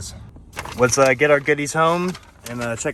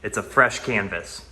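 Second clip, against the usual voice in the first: speaking in an echoey empty room; bare walls echoing every word. Real, not acted. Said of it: "it's really echoey in here".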